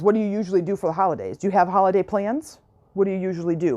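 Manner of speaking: quick, casual, offhand question; nonchalant. Shown as a demonstration. Coach asks about holiday plans, fast and offhand. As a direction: toss it off lightly, no weight. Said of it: "you state it in a very nonchalant way".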